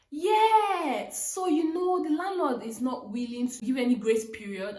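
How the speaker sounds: high, casual imitation of the agent, drawn-out "know"; lightly voiced agent shrugging it off; mock agent.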